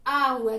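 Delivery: आ drawn out; long आ demo. Shown as a demonstration. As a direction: hold आ for two beats. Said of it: "समय भी ज्यादा लगा".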